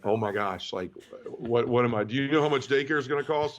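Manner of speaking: chuckling through the panic; a laughing, half-panicked "how much?"; laughing disbelief. Retold or imitated. Father hearing of twins, retelling his first reaction with a laugh.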